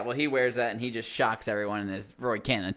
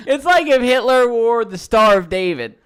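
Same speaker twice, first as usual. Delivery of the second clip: laughing; 8 semitones higher, 12 dB louder than usual. Real, not acted. Absurd joke, loud laughing voice.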